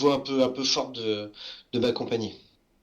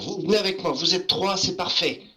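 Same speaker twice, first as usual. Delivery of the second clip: gnome voice; 3 semitones higher than usual. Acted. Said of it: "je vais dire aux enfants".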